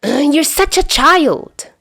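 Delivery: high, drawn-out exasperation; exaggerated frustrated groan. A narrator's reading. Dazai throws up his hands at Chuya, exasperated. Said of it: "letting out an exaggerated groan".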